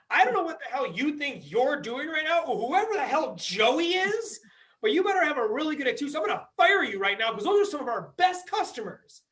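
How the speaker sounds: angry boss threatening to fire; angry manager. Retold or imitated. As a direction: chew the waiter out. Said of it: "He's like".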